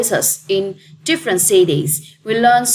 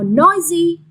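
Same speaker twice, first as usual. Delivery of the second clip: NOIsy, stress on the first syllable; 7 semitones higher, 3 dB louder than usual. Shown as a demonstration. Teacher modelling the stress of "noisy". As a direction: say "noisy" as NOI-sy with the weight up front. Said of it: "straight on the first syllable".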